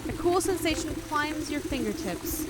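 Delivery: even narrator voice reading the scene; story narration. A narrator's reading. Streamer reading the nurse scene aloud, calm narration. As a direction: read it like a game's storyteller, steady.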